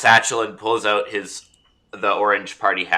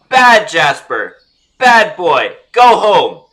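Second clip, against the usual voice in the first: loud, high, slow scolding; scolding a dog; 7 semitones higher, 7 dB louder, slower than usual. Acted. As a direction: shoo the tiger away like a bad dog.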